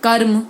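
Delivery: कर्म with a short R closed onto the M; full K, brief R, then M in कर्म; half R. Shown as a demonstration. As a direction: say कर्म with only a half R before M. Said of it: "र का आधा ही बोला जाएगा".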